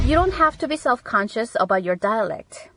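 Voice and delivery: slow, careful teacher read; deliberate classroom dictation; slow model reading. Shown as a demonstration. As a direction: read it out slowly for learners. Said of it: "라고 할 때".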